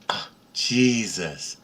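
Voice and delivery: slow, smiling sigh of recognition; smiling awe. Retold or imitated. Mother waking to see Jesus at her side, smiling awe. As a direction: draw the name out slowly with a smile. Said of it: "she smiles, and she says".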